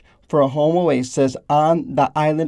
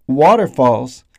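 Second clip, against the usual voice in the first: whisper; 4 dB louder than usual. Acted. Whispered aside in sponsor list.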